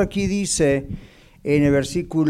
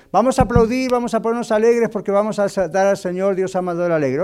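mock church hype-man; 3 semitones higher than usual. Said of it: "Yo estuve en iglesias donde han dicho".

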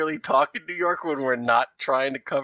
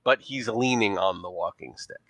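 put-on leaning into a thick New York accent; a New York showgirl playing up her accent. Showgirl answering detectives about her boyfriend, in a New York accent. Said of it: "our New York accent when we lean into it".

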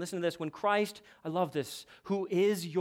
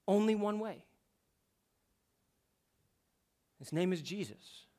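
hushed; 5 dB quieter than usual. Acted. Sermon climax, hushed.

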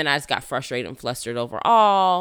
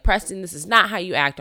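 stern scolding; 4 semitones higher, 4 dB louder than usual. Retold or imitated. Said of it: "I was very stern".

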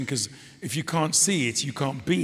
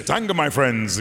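mock African accent; 3 dB louder than usual. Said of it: "I used to say".

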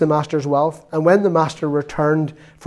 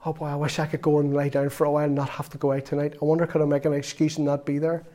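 weary; 6 dB quieter than usual. Retold or imitated. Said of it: "you feel really tired".

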